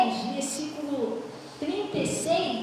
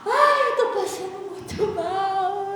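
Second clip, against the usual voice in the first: faked illness; 4 dB louder, slower than usual. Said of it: "nunca vi um troço tão fingido".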